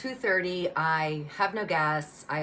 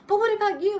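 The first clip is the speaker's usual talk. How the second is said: much higher and louder, frantic; panicked shout; 7 dB louder, faster than usual. Retold or imitated. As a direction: yell it back over the chaos. She shouts back in panic.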